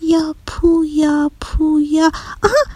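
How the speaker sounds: put-on high-pitched girl puzzling out a word; repeating to herself. A narrator's reading. Girl working out the boy's name, repeating to herself. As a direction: try the name over in a high voice, pondering. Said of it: "آدیشه با خودش تکرار کرد".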